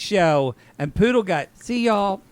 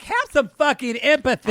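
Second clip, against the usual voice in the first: mimicking Randy; 9 semitones higher than usual. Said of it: "Randy was like".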